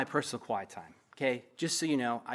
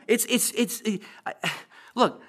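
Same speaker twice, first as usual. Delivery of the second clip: laughing; 8 semitones higher, 6 dB louder, slower than usual. Real, not acted. Pastor overcome, laughing mid-sentence.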